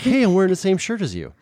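high-pitched eager voice; high excited kid voice. Retold or imitated. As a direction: chirp it up brightly. Imitating looking up to mom.

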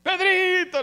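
high, loud affectionate call; playful sing-song summons; the Lord. Acted. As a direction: call out a pet name, drawn out. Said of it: "le dijo el Señor a Pedro".

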